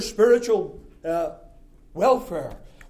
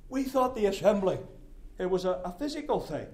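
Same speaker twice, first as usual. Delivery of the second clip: imagined objector; 5 dB quieter than usual. Retold or imitated. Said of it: "You say".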